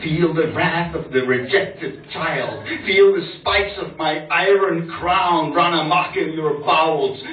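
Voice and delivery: theatrical threat to a lover; menacing revenge poem. Acted. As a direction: draw out the threats in dramatic spoken-word style.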